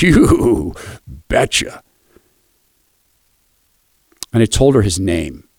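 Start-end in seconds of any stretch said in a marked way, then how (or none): 0.0-1.8 imitating grandpa. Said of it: "he can say it in different tones".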